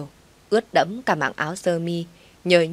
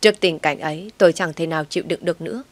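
usual speaking voice

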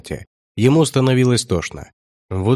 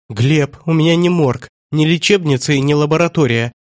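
shrill squeal; 6 semitones higher than usual. A narrator's reading. Trader protests to Gleb, squealing high. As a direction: squeal it out in a panic. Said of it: "взвизгнул торговец".

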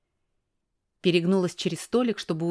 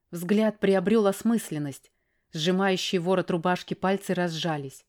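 ordinary delivery, nothing marked

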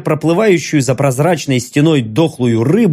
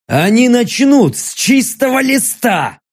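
a higher, sharp snapped line; barked retort; 6 semitones higher than usual. Acted. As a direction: bark it back in anger. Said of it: "рявкнул я".

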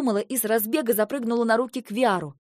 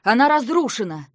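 urgent raised voice; alarmed report; 6 dB louder than usual. Acted. Guard urgently reporting to the queen, alarmed. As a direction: burst in with terrible news.

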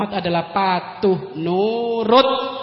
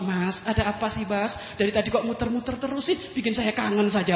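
softer, coaxing wife to husband; lightly voiced flirty wife; soft sweet talk; 5 dB quieter than usual. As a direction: tease him gently and sweetly. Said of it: "ngomong lembut sama suami".

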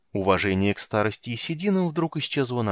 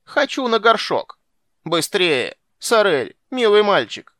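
high, loud whiny urging; petulant demand; 8 semitones higher, 7 dB louder, slower than usual. A narrator's reading. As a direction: demand it like a fussy child. Old man demands the potty. (капризное требование, высоко и громко)

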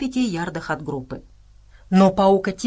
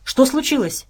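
raised pitch, mild alarm; anxious, higher-voiced question; agitated question; 6 semitones higher, 4 dB louder than usual. A narrator's reading. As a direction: ask with a touch of worry. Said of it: "взволнованно спросил Джексон".

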